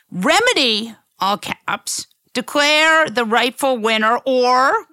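reading out punctuation marks; dictating. Shown as a demonstration. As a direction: dictate the post word by word. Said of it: "important to read it".

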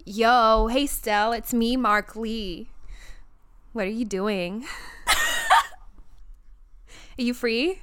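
slow, lightly put-on American flirt; a hint of American accent, stretched out; imitating a singer. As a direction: try a slow, half-hearted pick-up act. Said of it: "be Mark hitting on Stell".

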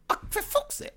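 squeaky high laughing despair; laughing exasperation. Retold or imitated. Friend imitating his exasperation, laughing high. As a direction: cry it out through high laughter. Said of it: "you're like".

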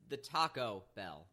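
the TACO Bell, slow, Bell falling away; slow down and weight Taco over Bell; stress on Taco. Shown as a demonstration. Defending own pronunciation to co-host, stress on Taco. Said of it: "No, like, it's the".

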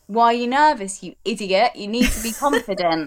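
mock harsh self-talk; harsh inner critic. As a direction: scold yourself like a harsh critic. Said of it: "would I ever say".

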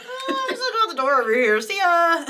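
acting out your character sneaking off; breezy exit. Player voicing her character slipping out the door, fast and light. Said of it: "I'm just like".

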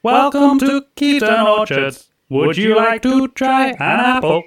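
high, loud crackly robot voice; robot gnome through a crackling voice box; voice through static. Acted. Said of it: "you hear the crackle of its voice box boot up".

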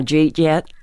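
quick slurred Pennsylvania "Jeet yet?"; Pennsylvania accent. Shown as a demonstration. Showing her old Pennsylvania accent to the host. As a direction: mash "Jeet yet?" together, Pennsylvania style. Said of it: "I had a bit of a Pennsylvania accent".

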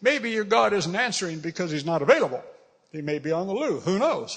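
light teasing taunt; mocking. Preacher as Elijah ribbing the prophets of Baal, lightly mocking. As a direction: offer mock excuses for their silent god. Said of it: "he's mocking him".

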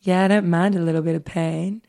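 quick, lightly creepy smooth talker; smooth jazz voice. Acted. Host reads the date's pain confession, lightly smooth jazz voice. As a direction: play the creepy date with a hint of jazz croon. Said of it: "he's smooth jazz voice".

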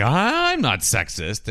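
"I'm" stretched out slowly; drawn-out denial. Retold or imitated. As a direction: protest it with a long, drawn "I'm". Same denial repeated, drawn out.

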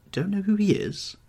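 a sharp high echo of the keeper's words; listless. Acted. Dorian to his gamekeeper, a high startled echo. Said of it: "Dorian said listlessly".

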